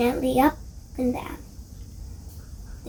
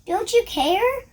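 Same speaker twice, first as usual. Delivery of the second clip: desperate reproach; 10 semitones higher, 3 dB louder than usual. A narrator's reading. Terrified disciples accusing Jesus.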